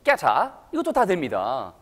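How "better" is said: British "get her" run together as "getta"; crisp-t British linking. Shown as a demonstration. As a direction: pop the t and drop the r, British style. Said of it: "T 발음 나오는 거".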